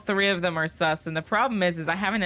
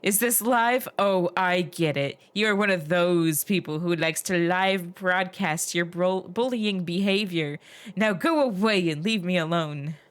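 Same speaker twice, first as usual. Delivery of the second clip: paranoid angry Chris; 3 dB louder than usual. Acted. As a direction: hurl suspicious accusations at a stranger. Player voices hostile Chris.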